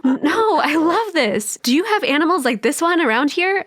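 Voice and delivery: thrilled, tumbling out the words; gleeful child meeting a giraffe; delighted girl. Acted.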